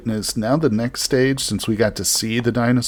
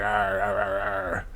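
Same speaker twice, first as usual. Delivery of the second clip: lightly imitated creature call; mock dinosaur crowing; 6 dB quieter, slower than usual. Player mimicking the happy dinosaur, mock crowing. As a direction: crow like a self-satisfied dinosaur, half-hearted. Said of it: "he's all crowing".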